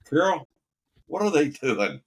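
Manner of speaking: a wide-eyed fake-innocent squeak; naive question. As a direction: play dumb in a squeaky high voice. Tim Conway asking, watching whales mate.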